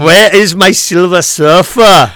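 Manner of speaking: slow, booming cosmic villain; a hint of an Austrian villain. Villain voice continuing the bit.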